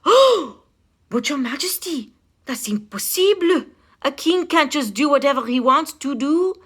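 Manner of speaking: high, loud, scandalized protest; shocked counselor. A narrator's reading. Counselor protesting the king's wish, high and shocked. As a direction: pull the king back from a bad idea. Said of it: "The counselor gasped".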